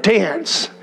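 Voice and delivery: voice of God. Retold or imitated. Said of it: "God said".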